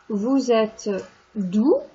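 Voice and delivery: "Vous êtes d'où?" drawn out word by word, very slowly; slow French model question. Shown as a demonstration. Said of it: "responding to the question".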